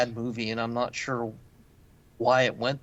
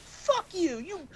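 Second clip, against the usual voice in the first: high mock kid yell; screaming kid; 3 dB quieter, slower than usual. Chubby kid yelling at the wrestler, high mock shriek. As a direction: squeal it like an angry child. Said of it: "it's like".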